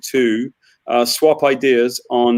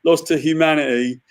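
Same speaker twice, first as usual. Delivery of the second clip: movie trailer voice; 3 semitones higher than usual. Retold or imitated. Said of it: "Cousin Davey".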